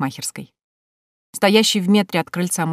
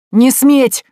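high, loud, wailing shout; frantic cry of a thwarted uncle; howled protest; 8 semitones higher, 10 dB louder than usual. Acted. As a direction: howl the ban in outrage. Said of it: "завыл Тимофей Яковлевич".

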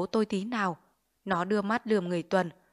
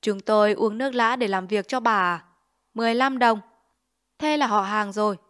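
contemptuous haggling; 5 dB louder than usual. Acted. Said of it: "bĩu môi trợn mắt".

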